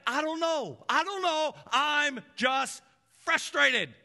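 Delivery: high, pleading frustrated whine. Retold or imitated. Preacher acting out a frustrated friend being questioned, whiny. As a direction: whine it like you can't explain.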